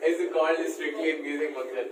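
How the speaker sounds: drawn-out words for note-takers; slow dictation. Real, not acted. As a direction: finish the definition at writing speed. Finishes dictating the definition.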